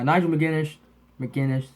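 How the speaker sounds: slushy lisp from braces. Real, not acted. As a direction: lisp through braces springs. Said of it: "gives me the worst lisp ever".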